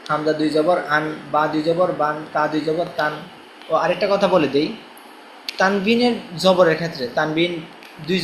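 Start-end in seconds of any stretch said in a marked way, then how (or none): 0.1-3.1 even, level-toned letter drill; spelling drill recitation. Shown as a demonstration. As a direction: recite each letter spelling to a steady beat. (একটানা সুরে বানান মশক)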